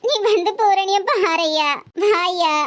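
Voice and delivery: slow, drawn-out tearful plea; crying. Acted. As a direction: wail to your son for help. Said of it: "என்னன்னு அழாம சொல்லுங்கம்மா". (அழுதுகொண்டே இழுத்துப் பேசுதல்)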